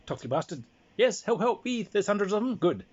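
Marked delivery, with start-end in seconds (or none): 1.0-2.6 high, loud pretend cries for help; mock panic. Teller echoes the scout's fake cries, high and hammed-up. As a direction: ham up the alarm.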